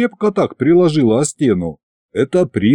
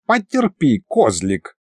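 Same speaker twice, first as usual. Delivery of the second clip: scornful goddess voice; 5 semitones higher, slower than usual. Acted. Goddess dismisses Koschei.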